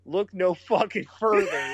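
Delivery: shouting through laughter; real laughing shout. Real, not acted. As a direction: laugh as you yell it out. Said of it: "laugh shout".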